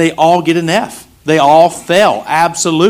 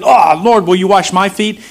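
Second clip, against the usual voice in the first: higher and louder, an eager rush; eager blurt; 5 semitones higher, 3 dB louder than usual. Retold or imitated. Peter blurting out to Jesus, eager and higher.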